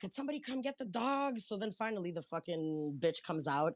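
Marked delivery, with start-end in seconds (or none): 0.0-1.4 mock shout, high-pitched yell. Retelling a dog running up, calling for someone: imitating her own yell. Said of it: "I started yelling".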